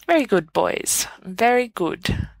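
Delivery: blissful. Acted. Dumbledore praising the boys, blissfully pleased. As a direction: savour it, delighted. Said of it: "Dumbledore says blissfully".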